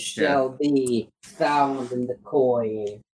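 very slow, ceremonial pronouncement; mock-solemn oracle. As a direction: pronounce a prophecy, drawing it out. Solemnly consulting the yarn gods.

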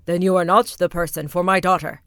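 loud, haughty and proud; proud rat king; proudly. Acted. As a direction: dismiss him with pride. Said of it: "said the Rat King proudly".

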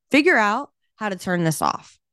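firm, mildly insistent retold demand. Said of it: "a little more firm with this man".

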